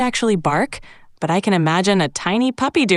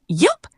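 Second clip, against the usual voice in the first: short high yelp; sudden puppy yelp; 7 semitones higher than usual. Shown as a demonstration. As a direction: yelp like a pup just stepped on. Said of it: "let out a sudden yelp".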